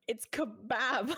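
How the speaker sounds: slow "kebab" with a flat A, stress on BAB; drawn-out, insistent "kebab"; firm slow kebab, flat A; American kebab. Shown as a demonstration.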